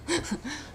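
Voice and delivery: short, soft embarrassed laugh; nervous laugh. Real, not acted. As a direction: laugh off the emotion, quietly. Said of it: "now I'm getting emotional".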